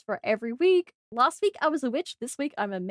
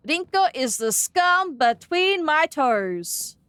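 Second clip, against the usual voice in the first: slow, emphatic jab; mock disdain; 3 semitones higher, 4 dB louder, much slower than usual. Streamer slowly dissing a game character to chat. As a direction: drag it out with playful venom.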